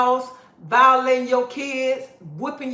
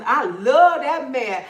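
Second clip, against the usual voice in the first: slow, laughing imitation of a woman in denial; drawn-out parody of a mother; mock lovesick mother; 3 semitones higher, 5 dB louder, slower than usual. Laughing at women who stay with bad men, mock lovesick and slow. Mocking a mother defending her man.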